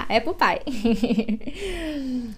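"Apple pie" stretched very slowly; teacher lingering on each sound of "Apple pie"; drawn-out apple pie. Shown as a demonstration. Teacher modelling the slow careful apple pie for learners. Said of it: "Pra quem que é aquilo lá?".

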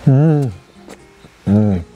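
chewing a pastry while humming; mouth full, chewing. Real, not acted. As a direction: food in mouth. Seen 2: Holds bun low, lips pursed chewing; no bite happens during these words.

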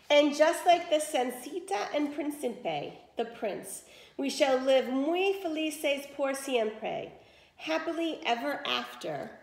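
lively read-aloud to children, voicing each character; expressive story narration for young listeners; storybook reading. A narrator's reading. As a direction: tell it like a bedtime tale for the class. Teacher reads a story aloud.

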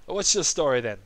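lightly voiced old man, fairly restrained; toned-down old man. Old Koopa questions his visitors, restrained old-man voice. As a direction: ask it as a milder elderly character. Same line repeated after aside.

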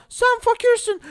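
high, slow mocking sneer; taunting bully. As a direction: drag out the insult like a spoiled brat.

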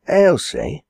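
high call of a name. Acted. Landlady to the servant girl, calling out.

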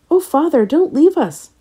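high-pitched, imploring cry; pleading cry. A narrator's reading. Plants cry to their departing sun father, pleading. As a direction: cry out, begging not to be left. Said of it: "cried the plants".

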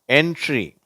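என்ட்ரி with n, t, r blended together; teacher gives என்ட்ரி as a model; model word entry. Shown as a demonstration. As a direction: say என்ட்ரி slowly as an example. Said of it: "அதுக்கு உதாரணம்".

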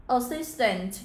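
"Assistant" stressed on SIS; short first vowel, stressed middle in "Assistant"; second-syllable stress. Shown as a demonstration. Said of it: "nhấn stress vào âm số hai". (nhấn âm hai trong "Assistant")

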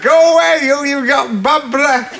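put-on high, sharp girlish brush-off; niece's retort. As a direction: snap it like a bratty teen girl. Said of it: "She said".

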